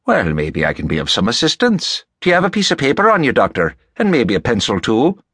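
lightly voiced helpful Irishman; genial Rafferty. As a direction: offer help in a folksy, friendly voice.

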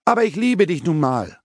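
a high desperate scream; a lover screaming her love high. Acted. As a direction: throw it out high, at the end of her rope. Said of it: "Und sie schreit".

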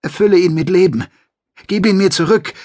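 a grieving woman begging for her companion back; desperate plea. Acted. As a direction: beg the crystal judge for his life. Mother begs trees to revive him.

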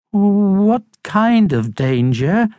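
high, slow, hesitant question; timid Harold, nervous. Acted. Timid hamster asks about the danger, high and nervous. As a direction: ask fearfully in a small high voice.

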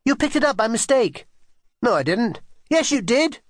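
high back-and-forth squabble; contradicting each other, mostly pitched high; quarrelling children. A narrator's reading. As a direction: bicker like two cross children. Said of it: "They were quarrelling so loudly".

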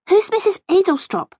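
put-on high-pitched, curious girl's voice; inquiring girl. A narrator's reading. Rachel asks gran about her rival, inquiring. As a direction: ask it high, puzzled, like a child. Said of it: "Rachel inquired".

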